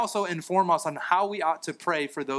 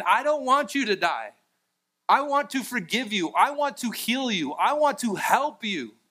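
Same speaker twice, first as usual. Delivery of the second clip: God crying out; 6 semitones higher than usual. Acted. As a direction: beg them to turn back to you. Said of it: "God just crying out".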